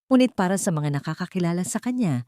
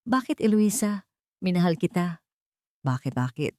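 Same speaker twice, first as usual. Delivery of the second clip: hurt pleading; 2 semitones higher than usual. A narrator's reading. Mateo to his wife Eloisa, betrayed and pleading. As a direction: ask why, voice sinking in hurt.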